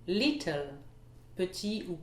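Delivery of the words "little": LIT stressed in "Little", then falling; first-syllable stress. Shown as a demonstration. Teacher models a common word, stress on LIT in "Little". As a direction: hit the start: LIT-tle. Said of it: "l'accentuation sur la première syllabe".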